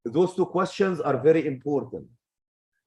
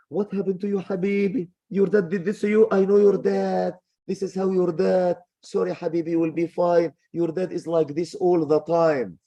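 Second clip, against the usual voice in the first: higher, gushing mother pitying her son; a doting mom who blames the dad, voiced higher; coddling idiot mom; 5 semitones higher than usual. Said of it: "let me start with the idiot mom".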